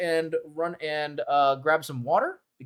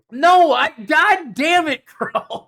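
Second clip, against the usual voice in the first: loud, higher and slowing on damn it; exasperated outburst; 11 semitones higher, 11 dB louder, slower than usual. Real, not acted. Teased by Crow over gilfs, exasperated loud outburst. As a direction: yell it out at being caught out.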